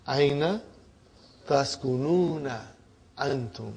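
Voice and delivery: word by word. Shown as a demonstration. Teacher splits the Arabic question for students, word by word. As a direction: break the question into single words. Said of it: "what is the translation".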